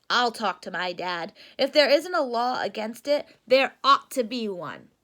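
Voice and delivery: put-on firm young Babs; a hint of a resolute little bear. Babs Bruno determined.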